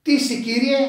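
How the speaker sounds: high, loud question; awed cry. Acted. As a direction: cry out in awe to the Lord. Preacher voices Saul's awed question.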